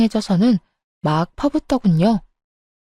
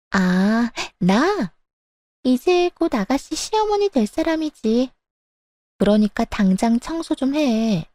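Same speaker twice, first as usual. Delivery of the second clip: mistress voice; 3 semitones higher than usual. Acted.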